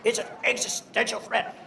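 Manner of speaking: imitating Biden. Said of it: "He loves the word existential".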